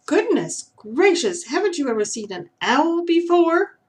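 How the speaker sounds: a wise owl amused at a gawking squirrel; surprised owl. A narrator's reading. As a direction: owl asking in mild astonishment. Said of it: "the creature asked".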